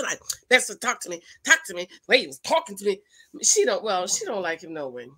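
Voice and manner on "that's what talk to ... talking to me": mock wife with attitude; having an attitude. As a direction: imitate her snippy comeback. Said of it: "having an attitude".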